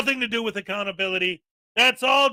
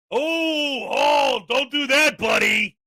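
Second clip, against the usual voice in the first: mock scolding; 2 semitones higher, slower than usual. Mock scolding of free speech.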